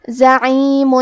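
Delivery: زعیم with a clear closed meem at the end; زعیم ending on a plainly sounded meem; stop on meem. Shown as a demonstration. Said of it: "میم پہ جزم سے رکیں گے".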